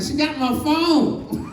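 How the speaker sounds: laughing whine. Retold or imitated. Desperate man at wall.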